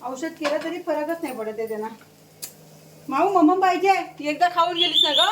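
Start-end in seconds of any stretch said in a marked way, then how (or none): 3.1-5.2 louder, higher coaxing to the cat; pet talk. Real, not acted. Mother tells hungry cat she already ate, louder pet talk. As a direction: tease the cat fondly.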